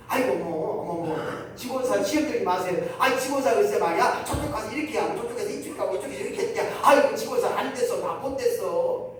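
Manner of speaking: high, chattering gossip, fast in the middle; a hammed-up busybody deaconess; gossiping church lady. (높고 빠르게 수다 떠는 권사 흉내)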